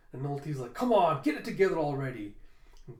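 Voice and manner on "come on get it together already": raised, mildly exasperated mock shout; impatient. Ulti fed up with waiting, impatient. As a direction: burst out, then hurry the rest.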